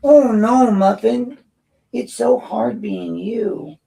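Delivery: put-on loud, high, slow baby-talk sympathy; mock pity. Speaker mocking the director with slow, high, sarcastic baby talk. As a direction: coo it up high and drag it out, dripping sarcasm.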